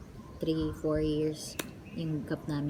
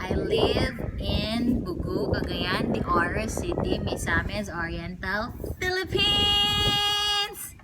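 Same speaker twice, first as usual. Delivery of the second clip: Miss Universe style; slower than usual. Pretend. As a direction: announce your hometown like a beauty queen on stage. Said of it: "Para Miss Universe!".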